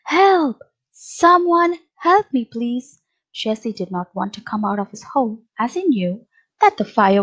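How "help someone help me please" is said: high-pitched storybook plea; mock squeal for help. A narrator's reading. Trapped cub calling for someone to help, high acted squeal. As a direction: cry out high for rescue, softening on please. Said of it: "could hear a loud squeal".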